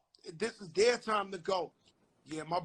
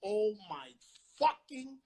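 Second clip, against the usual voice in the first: builds from plain to a much higher, louder cry on God; retold shocked outburst; 5 semitones higher, 9 dB louder, slower than usual. He hears his friend boast to the detective, rising shocked cry. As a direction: let the shock explode on the last word. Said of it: "I said".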